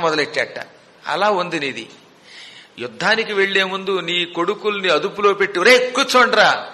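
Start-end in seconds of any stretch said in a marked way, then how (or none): 5.6-6.7 firm order. Retold or imitated. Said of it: "అని నువ్వు గట్టిగా అనుంటే".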